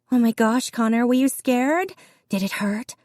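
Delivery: a classmate thrilled by the gossip; excited classmate. A narrator's reading.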